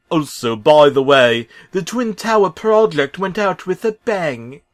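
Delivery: loud, high, bright builder voice giving the crew their orders; cheery Bob the Builder. Acted. Bob briefing his crew, in a loud cheery high builder voice. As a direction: Bob rallying the gang, grinning.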